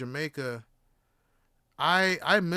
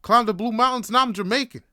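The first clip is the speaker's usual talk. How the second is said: loud, raised, triumphant declaration; proud; 6 semitones higher, 10 dB louder than usual. Retold or imitated. New Jamaican after climbing Blue Mountains, proud boast. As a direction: boast it with swelling pride. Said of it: "I felt that pride".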